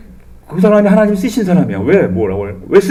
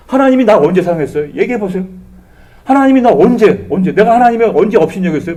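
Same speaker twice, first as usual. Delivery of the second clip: arguing with God. Retold or imitated. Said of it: "막 따지는 거야".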